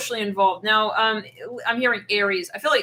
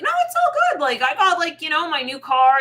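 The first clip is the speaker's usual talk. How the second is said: very high, laughing fake nonchalance; faking cool; 7 semitones higher, 5 dB louder than usual. Ex pretending all is fine, high forced laugh. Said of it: "they're trying to act cool".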